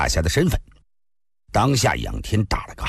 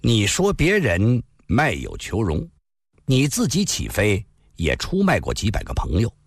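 slow, deliberate accusation; 缓缓地说; slowly. Acted. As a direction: lay it out calmly, piece by piece. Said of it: "望着他，缓缓地说道".

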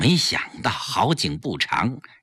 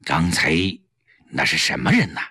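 low, wary question from the husband; suspicious; 9 semitones lower, faster than usual. Acted. 丈夫关上门警惕地盘问妻子. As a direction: ask warily behind a closed door. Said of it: "警惕地问".

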